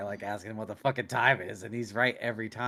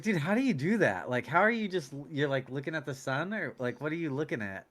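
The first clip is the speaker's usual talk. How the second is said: higher-pitched, baffled curiosity; amazed questioning; 5 semitones higher than usual. Retold or imitated. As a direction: retell it as someone astonished by a trick. Retells his amazed questioning.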